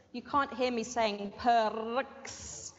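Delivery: perks with no r sound, said slowly; slow teacher line, perks without the r; model pronunciation. Shown as a demonstration. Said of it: "It's a silent R".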